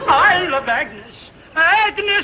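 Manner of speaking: high, loud, gushing love; gushing adoration. Acted. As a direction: swoon over the name. Gushing over the sheriff's wife.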